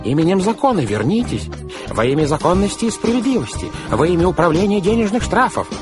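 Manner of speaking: high, loud pompous shouting; shrieked official command. A narrator's reading. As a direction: call after a fugitive with mounting official outrage. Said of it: "закричал мистер По".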